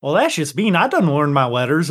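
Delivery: slipping into Southern twang; country accent. Real, not acted. Player defends himself to teasing friends, country accent. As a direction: protest in an accidental country accent. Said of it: "your weird versions of speech".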